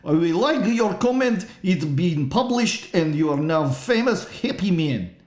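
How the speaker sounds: put-on high Russian accent, broken English. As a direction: boast in a hammy Russian accent. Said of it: "Russian voice".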